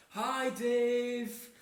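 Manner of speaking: mock matchday holler; men shouting greetings. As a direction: call to a mate across a crowd. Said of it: "middle-aged men all shouting".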